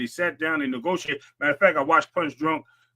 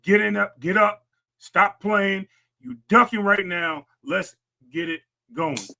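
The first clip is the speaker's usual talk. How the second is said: imitating a ranting friend; 4 semitones higher, slower than usual. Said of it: "I'm paraphrasing Punch".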